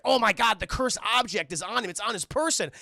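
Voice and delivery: acted dawning alarm, mildly urgent; alarmed realization. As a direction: exclaim it as a sudden discovery. Sassy realizes the danger.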